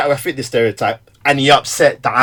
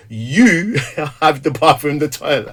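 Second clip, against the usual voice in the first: wife's voice. Retold or imitated. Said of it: "She's like".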